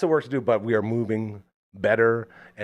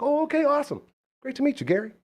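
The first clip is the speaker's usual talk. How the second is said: much higher, cheery acknowledgment; imitated friendly celebrity. Star greeting the radio host, high and friendly. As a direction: put on a high-pitched, agreeable greeting.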